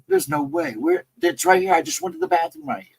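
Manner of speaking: high, panicky disbelief; retold freak-out. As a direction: relive the panic of a scared kid, pitch up. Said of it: "So I freak out".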